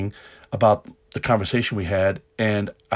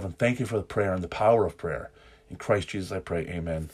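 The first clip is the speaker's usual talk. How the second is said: spoken prayer. Acted. Leads an opening prayer.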